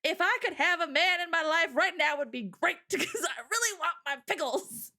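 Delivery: hammed-up plea to heaven, breaking into laughter; beg, half laughing, as if at wit's end; imitating a desperate cry; mock tearful prayer. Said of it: "I was crying, like".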